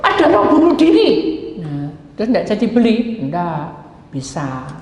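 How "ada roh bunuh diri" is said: high, exclaimed mock shock; acted alarm. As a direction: blurt it out as a startled warning. Acted startled diagnosis to house buyer. (seruan kaget dibuat-buat)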